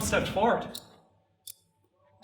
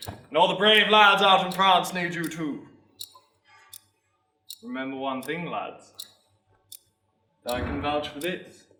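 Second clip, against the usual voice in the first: sergeant major, persuading; 2 semitones lower, 5 dB louder than usual. Acted. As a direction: appeal to the lads, then confide in them. Sergeant major appeals to the lads.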